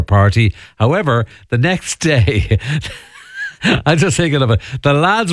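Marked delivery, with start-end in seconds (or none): 3.6-4.6 real light laugh through the words; amused chuckle. Real, not acted. Radio host recalling The Hangover's plot, amused chuckle. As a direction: chuckle while speaking.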